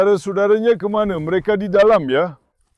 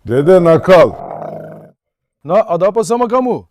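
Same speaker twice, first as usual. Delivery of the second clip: scolding the dog. Real, not acted.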